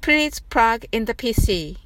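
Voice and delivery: the whole phrase in one breath; now say it smoothly in one go. Shown as a demonstration. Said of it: "それでは早く言ってみましょう". (続けてなめらかに一息で)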